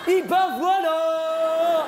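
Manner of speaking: high, slow and satisfied; mother voice. Retold or imitated. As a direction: say it like a proud mom. Mother voice punchline.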